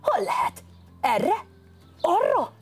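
high, urgent questions rising to a shout; excited cry. Acted. Boribon searches for the cat's voice and cries out to run, high excited. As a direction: hunt for the cat, eager and rushed. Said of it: "kiáltott Boribon".

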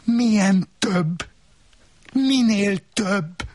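magas, felháborodott női hang; csipkelődve, magasan kérdez; asszony hangja. Acted. Asszony szemrehányó kérdései. (magas, gúnyos asszonyhang)

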